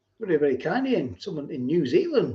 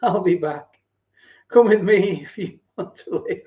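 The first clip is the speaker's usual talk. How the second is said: Arnold impression; 3 semitones higher, 5 dB louder than usual. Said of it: "an Arnold impression".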